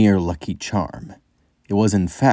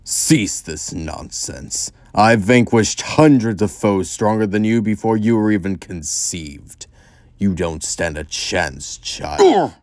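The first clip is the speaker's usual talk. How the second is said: annoyed. Acted. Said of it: "Zavok sounded more annoyed than engaged".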